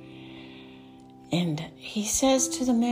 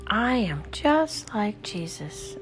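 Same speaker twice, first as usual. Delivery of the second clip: spoken aloud, slow and higher; voiced affirmation; 4 semitones higher than usual. Shown as a demonstration. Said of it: "Use your voice".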